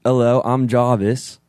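put-on slow, restrained British accent; Jarvis impression. Nervous friend finally doing the voice on demand, careful British accent. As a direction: attempt a measured British assistant voice. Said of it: "Just say, "Hi, I'm Jarvis," but in Jarvis's voice".

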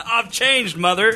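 mock Boston accent, I've changed mother; hammy Boston accent, lightly put on. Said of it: "but in Boston accent".

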